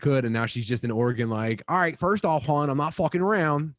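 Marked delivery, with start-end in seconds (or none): 1.7-3.7 imitating a sister's heavy Delco accent, a bit higher; broad Philly-area Delco accent, brash and blunt; thick Delco accent. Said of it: "She's got the hardest local accent".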